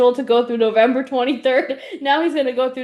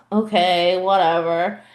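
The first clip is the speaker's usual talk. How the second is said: lightly voiced bored kid; 7 semitones lower, slower than usual. Other nephew voiced, low.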